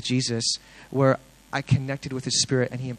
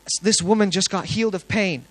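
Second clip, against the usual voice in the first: open-air preaching; 5 semitones higher than usual. Retold or imitated. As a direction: proclaim it to passers-by. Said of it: "I should open air preach".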